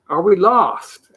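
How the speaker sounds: drawn-out, patient asking; slow repeated question. A narrator's reading. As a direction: ask again slowly and clearly. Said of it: "asked Milo once again".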